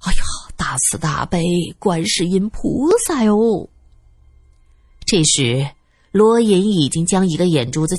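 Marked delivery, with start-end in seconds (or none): 0.1-3.7 murmured plea to Guanyin; muttered invocation. A narrator's reading. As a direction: intone it like an anxious butler praying. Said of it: "接着又念叨一句".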